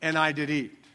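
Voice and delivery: a hint of Eve passing the buck; whiny Eve excuse. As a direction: drag out the excuse, lightly voiced. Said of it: "What did he say?".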